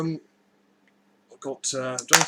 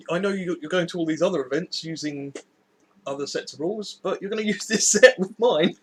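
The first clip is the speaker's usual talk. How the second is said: bossy dictator; 4 semitones higher, 6 dB louder than usual. Pretend. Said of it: "build up the dictator attitude".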